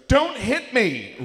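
high, slow shrieking don't hit me; screamed plea. Retold or imitated. Fiancée yelps at a harmless pat, screaming. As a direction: shriek it like you're about to be struck.

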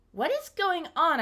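high, drawn-out baffled question; high, slow, baffled ask; exasperated confusion. Retold or imitated. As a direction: pitch up in disbelief. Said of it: "you're like".

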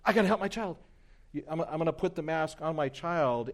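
high, urgent voice of a worried mother; panicked mom. Retold or imitated. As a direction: blurt it out like a frantic mom. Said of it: "what's the mom wanna do".

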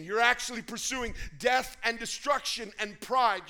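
loud, rising preacher shout; preaching shout. Real, not acted. Preacher shouting at his congregation, fired up. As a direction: hit it hard from the pulpit.

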